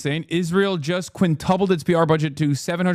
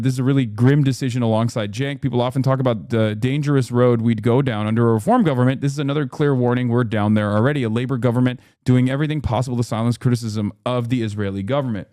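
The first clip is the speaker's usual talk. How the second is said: fast read-out quote; 2 semitones lower, faster than usual. Retold or imitated.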